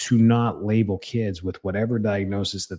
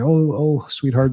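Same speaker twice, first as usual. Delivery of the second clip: higher, sugary mock-soothing coo; mock gentle coo; 5 semitones higher, 4 dB louder, slower than usual. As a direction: coo it like you're soothing a toddler, half-mocking. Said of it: "walk gently towards them".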